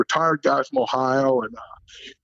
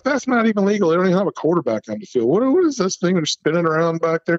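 higher, rushing mock yell at the refs; half-hearted sideline protest; young coach griping at the refs, mildly raised voice; retold sideline yell; 4 semitones higher than usual. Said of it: "So I'm yelling throughout".

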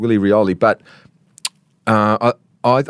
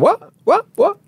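high mock disbelief at the refusal; incredulous disbelief; 13 semitones higher than usual. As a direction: throw up the what in shocked disbelief. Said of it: "They were going".

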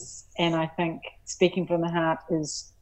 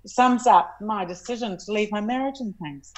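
real emotion rising, voice higher; getting emotional; 4 semitones higher than usual. Real, not acted. Guest telling interviewer about leaving a marriage, getting emotional. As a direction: let feeling lift the voice. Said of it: "I'm gonna get really emotional here".

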